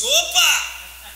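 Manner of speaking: calling out. Retold or imitated. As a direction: answer loud and high, calling upstairs. Answering a call from afar.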